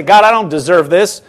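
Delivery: a grateful "God, I don't deserve this." in a level, calm voice; "God, I don't deserve this." as sincere thanks, not a complaint; humble sincere prayer. Shown as a demonstration. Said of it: "turn it right around and say".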